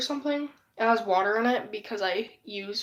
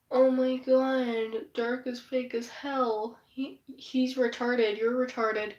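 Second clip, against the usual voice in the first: mocking taunt; slower than usual. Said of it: "Brandon would always call me".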